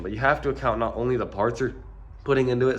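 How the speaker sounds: stuffy blocked-nose voice; congested. Real, not acted. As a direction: talk through a congested nose. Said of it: "sorry, I'm really congested".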